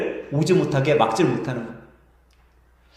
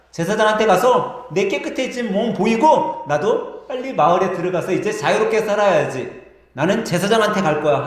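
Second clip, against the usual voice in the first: eager healed man; 3 semitones higher than usual. Acted. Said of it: "한 사람이 이야기를 하는 거예요".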